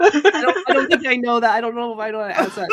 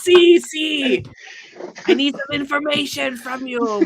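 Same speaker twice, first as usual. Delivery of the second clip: put-on voice, pitched up; changed voice; 6 semitones higher, 4 dB louder than usual. Player's character asking for information, changed voice. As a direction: switch into a higher character voice. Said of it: "changes her voice".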